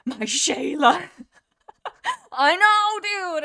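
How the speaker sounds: high, laughing, gushing; laughing squeal. Real, not acted. Fan laughing and squealing about Mothwing.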